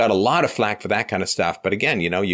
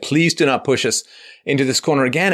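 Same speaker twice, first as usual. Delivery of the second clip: higher and louder, pleading; a higher, louder begging plea; 6 semitones higher, 3 dB louder than usual. Retold or imitated. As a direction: beg them not to push us again. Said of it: "begging the left".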